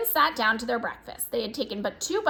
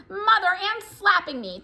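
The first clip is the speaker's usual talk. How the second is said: higher, louder whiny complaint; tattling child; 9 semitones higher, 4 dB louder than usual. Acted. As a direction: call to mother about the slap. Twin tattling to mother.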